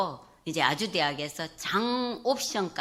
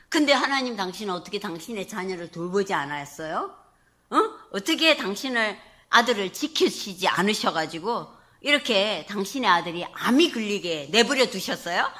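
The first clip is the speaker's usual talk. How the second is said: arguing with God; 3 dB louder than usual. Retold or imitated. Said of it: "제가 하나님 앞에 막 따졌어요".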